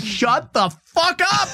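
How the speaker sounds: mock exasperated. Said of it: "I'd be like".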